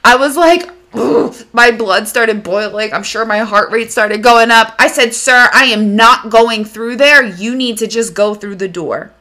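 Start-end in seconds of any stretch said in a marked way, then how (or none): 5.1-9.1 firm, stern refusal. Retold or imitated. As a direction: lay down the law, stressing the refusal. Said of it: "I have a very good stern voice".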